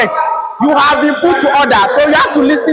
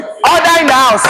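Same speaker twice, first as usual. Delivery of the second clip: shouting order order. Real, not acted. Speaker calls chamber to order.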